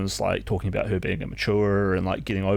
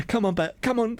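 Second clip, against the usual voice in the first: mock mum; 14 semitones higher than usual. And they're like.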